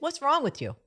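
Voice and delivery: high, loud New Jersey Italian mom; New Jersey Italian scolding. Retold or imitated. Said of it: "it's like the New Jersey Italian".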